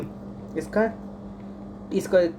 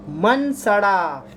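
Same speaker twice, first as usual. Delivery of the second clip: मन सड़ा drawn out slowly and a bit louder, each syllable held; slow drilled mnemonic; 4 dB louder, much slower than usual. Shown as a demonstration. Teacher to students drilling the mnemonic, slow and stretched. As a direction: spell the words out slow so the class remembers. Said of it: "इसका ए".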